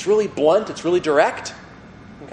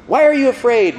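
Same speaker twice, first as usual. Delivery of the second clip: Jesus rebuking; 8 semitones higher, 6 dB louder than usual. Retold or imitated. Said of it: "Mark says".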